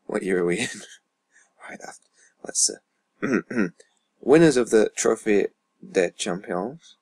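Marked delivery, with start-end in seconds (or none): 4.2-7.0 put-on French accent on the trophy name, drawn out. Gamer reading out the trophy list, mock French accent. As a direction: attempt your best French accent. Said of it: "Put on the best French accent for this".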